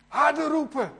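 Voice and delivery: loud, high-pitched jeer; mocking shout. Elia goads Baal's prophets, loud and mocking. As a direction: call it out to goad them.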